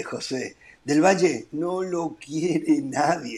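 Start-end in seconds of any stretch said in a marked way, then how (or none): 1.5-3.4 slow, amused, laughing through it; slow laughing repeat. Real, not acted. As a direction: drag it out while laughing. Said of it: "No, no lo quiere nadie".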